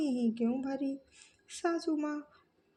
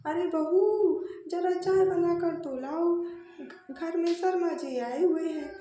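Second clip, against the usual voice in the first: calling out loudly; 3 semitones higher, 5 dB louder than usual. Acted. Mother-in-law calls the bahu to bring tea for Sharma ji, loud call. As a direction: call the bahu from across the house. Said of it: "जोर से आवाज़ लगाकर कहती है".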